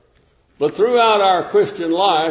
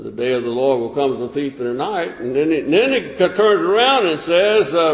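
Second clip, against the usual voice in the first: ordinary talk, nothing marked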